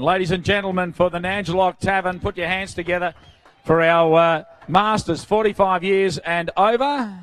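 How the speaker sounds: crowd-rousing MC call; grand entrance announcement. Acted. MC calling applause for class.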